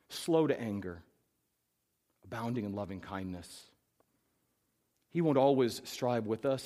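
reading scripture to the congregation. Acted. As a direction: let the verses sink in. Reads the psalm aloud.

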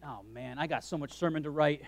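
inner grumble. Retold or imitated. Pastor grumbling to himself about unfinished sermon, quiet mutter. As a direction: grumble under the breath about the work. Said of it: "And I'm thinking".

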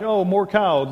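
novelty wearing off, falling tune. Acted. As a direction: play a kid losing interest, still high and loud. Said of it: "and then what are they like".

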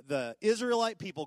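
ordinary talk, nothing marked

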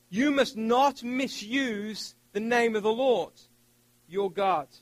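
scripture read very slowly, each word weighed; solemn, deliberate reread. Shown as a demonstration. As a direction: press every word of the warning. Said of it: "Let me read that again".

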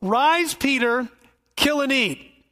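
voice of God. Acted. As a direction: order him like God from heaven. God commands Peter again.

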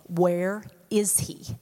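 slow hushed whisper; whispered question. Acted. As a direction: drop to a slow whisper, searching. Whispered rhetorical question in sermon.

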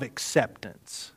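voiceless, confiding whisper; whispered confession. Real, not acted. Preacher confiding his struggle to the congregation in a whisper. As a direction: lean in and whisper it.

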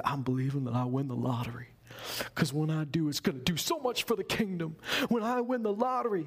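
lightly put-on Southern accent. Church member telling the pastor about lottery plans, mock Southern accent. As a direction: mimic a hopeful believer with a Southern twang. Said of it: "they didn't have a Southern accent".

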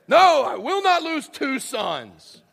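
loud and very slow, each word hammered; emphatic refusal. Retold or imitated. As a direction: drag it out like a final verdict. Jacob refuses again.

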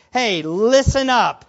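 slow, firm call to attention; attention-getting. Acted. Preacher paraphrases Jesus flagging something very important, attention-getting. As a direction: make them listen, drawn out. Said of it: "This is very important".

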